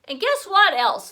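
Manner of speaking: put-on high, loud eager kid voice; a small boy bursting with news; excited little boy. A narrator's reading. Fudge excited child voice.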